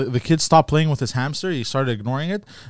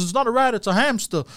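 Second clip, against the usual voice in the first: put-on kid's high voice; 8 semitones higher than usual. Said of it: "And he goes".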